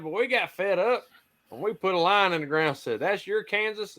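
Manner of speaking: high-pitched Southern storyteller; Southern accent. Retold or imitated. Old guy explaining the border line, Southern accent. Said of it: "southern accent and does a southern accent".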